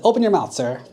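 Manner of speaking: eager command. Acted. Monkey tricks the crocodile.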